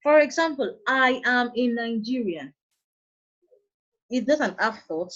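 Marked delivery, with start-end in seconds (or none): 0.9-2.5 "I am in Nigeria" slowly, falling on "Nigeria"; falling-tone statement. Shown as a demonstration. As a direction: let "Nigeria" drop as a finished statement. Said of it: "We use the falling tone to make complete statements".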